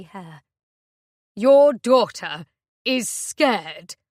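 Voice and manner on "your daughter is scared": loud, slow furious scream. Acted. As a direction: scream it back at her. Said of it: "he screams".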